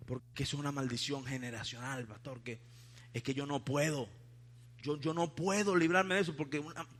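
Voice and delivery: low, hushed voice of a helpless congregant; meek excuse. Retold or imitated. Congregant telling the pastor of a generational curse, meek imitation. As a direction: imitate someone softly pleading inability.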